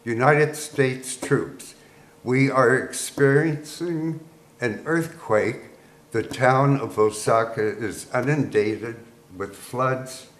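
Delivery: measured, lightly voiced PA announcement; PA announcer retold. Army PA warning troops of an earthquake, mock-official announcement. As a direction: announce it formally to the troops, without raising the voice. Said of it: "P A system, it said".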